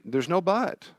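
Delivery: firm but gentle. Retold or imitated. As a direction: gently shut down the what-ifs. Adult cutting off worry.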